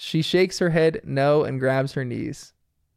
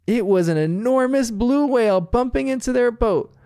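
storyteller mum; 7 semitones higher than usual. Retold or imitated. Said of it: "Chili fills in the blanks with her narration".

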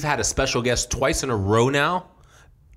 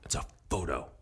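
stern teacher. Retold or imitated. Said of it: "she'd be like".

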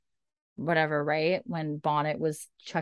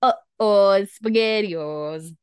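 mock alarm; 3 semitones higher, 7 dB louder, much slower than usual. Real, not acted. Joking after the cliffhanger.

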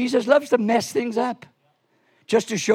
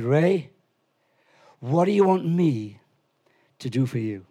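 gentle question; 5 semitones lower than usual. Retold or imitated. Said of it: "And Jesus said".

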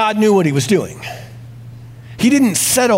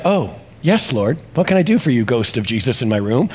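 calm acceptance; 5 semitones lower than usual. Retold or imitated. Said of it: "He's perfectly calm about that".

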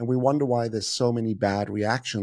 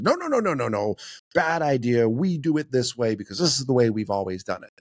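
dismissive manager. Retold or imitated. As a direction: shoot the idea down like a boss. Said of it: "like a manager".

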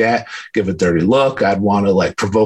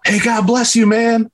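retold yell; 13 semitones higher than usual. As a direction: shout it after him from far off. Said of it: "I hear him yell".

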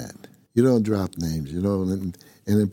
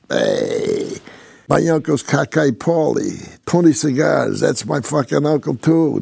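higher, louder mock wise-guy brag; boastful wise-guy talk; 6 semitones higher, 5 dB louder, slower than usual. Mimicking prison name-droppers bragging about connected uncles, higher, louder mock brag. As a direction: imitate a loudmouth name-dropping his mob uncles, pitched up and loud. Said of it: "That's how they talk".

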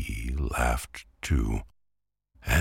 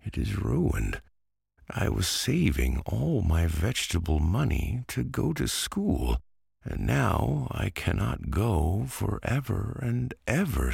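put-on higher, plaintive boy's voice; a lightly voiced boy, half in tears; boy Antoine pleading; 5 semitones higher than usual. Antoine begs Pumpkin to understand, lightly voiced boy.

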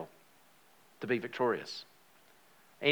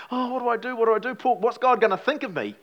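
higher-pitched, louder fretting; reenacted panic; 9 semitones higher, 5 dB louder than usual. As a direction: relive your own panic, pitched up and anxious. Reliving panic over intrusive thoughts.

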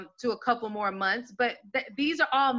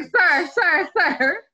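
mock protest; 6 semitones higher, 6 dB louder, much slower than usual. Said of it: "I'm gonna be like".

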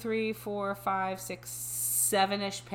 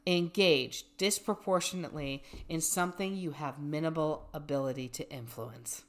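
measured, even reading voice; reading aloud; 3 semitones lower, 5 dB quieter than usual. Acted. Reading a dating bio to a friend, measured reading voice. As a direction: read it out evenly, settling down at sentence ends.

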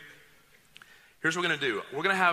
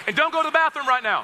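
loud joking warning; 10 semitones higher, 8 dB louder than usual. Real, not acted.

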